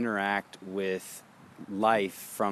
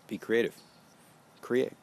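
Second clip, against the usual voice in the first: lively create; 4 semitones higher, 4 dB louder, faster than usual. Shown as a demonstration. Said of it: "Terminate, create".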